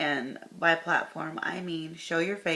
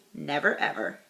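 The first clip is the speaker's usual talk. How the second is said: reading the capitals a bit louder; mock shout; 4 dB louder than usual. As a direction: lean on never ever like all caps. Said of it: "we're shouting".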